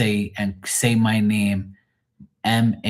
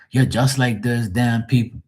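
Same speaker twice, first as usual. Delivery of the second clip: lightly voiced Portuguese coworker; 3 semitones higher than usual. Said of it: "The Portuguese guys go".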